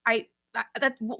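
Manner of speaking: usual speaking voice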